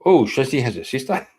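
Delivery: a high, swooping "Ooh" then a lightly voiced eager friend; mock the friend perking up at the news; imitating Charles, eager. Streamer mimics Charles hearing Shazzy has a sister, mock-eager. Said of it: "Charles goes".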